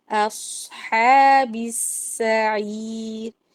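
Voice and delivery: slow melodic tajweed chant; measured Quranic recitation. Shown as a demonstration. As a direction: recite it slowly, stretching the vowels. Recites the phrase again.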